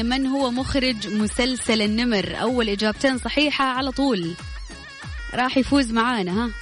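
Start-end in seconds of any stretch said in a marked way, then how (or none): 0.0-2.4 slow repeated question. Shown as a demonstration. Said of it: "مرة ثانية".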